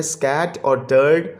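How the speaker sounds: "स्कैट और टर्ड" as two separate syllables. Shown as a demonstration. Teacher dividing scattered for pupils, syllable by syllable. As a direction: give "स्कैट" and "टर्ड" each its own beat. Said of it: "ये भी two syllable word है".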